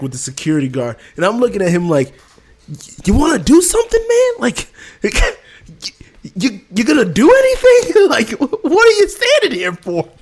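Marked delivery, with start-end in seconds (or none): 3.0-10.1 high, laughing fake challenge; mock taunting through laughter. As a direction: egg him on while cracking up. Retold taunt to security guard.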